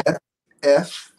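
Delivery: EF as a short, separate first syllable; teacher isolating the sound F, repeated; syllable broken out. Shown as a demonstration. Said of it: "break it down for me".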